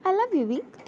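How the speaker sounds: a crying, choked-up confession; emotional, teary declaration of love; tearful I love you. Acted. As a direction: say it through tears while hugging him.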